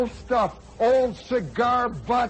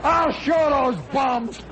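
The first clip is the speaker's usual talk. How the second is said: slow, louder spiteful plant worker; 3 semitones higher, 4 dB louder, slower than usual. Retold or imitated. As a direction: grumble revenge like a sour factory hand. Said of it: "must have just been going like this".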